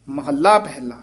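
ਮਹੱਲਾ set off from ਸ਼ਲੋਕ with a break; pause before mahalla. Shown as a demonstration. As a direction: pause after ਸ਼ਲੋਕ, then ਮਹੱਲਾ ਪਹਿਲਾ said apart. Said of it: "ਸ਼ਲੋਕ ਮਹੱਲਾ ਇਕੱਠਾ ਨਹੀਂ ਕਹਿ ਦੇਣਾ".

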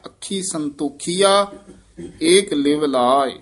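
ਸੰਤੋਖੀਆ with a long ee on ਖੀ, not ਸੰਤੋਖਿਆ; ਸੰਤੋਖੀਆ Bihari ਨਾਲ; correct ਸੰਤੋਖੀਆ. Shown as a demonstration. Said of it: "ਇਸ ਤਰ੍ਹਾਂ ਸੰਤੋਖੀਆ ਹੀ ਉਚਾਰਨ ਕਰਨਾ ਹੈ।".

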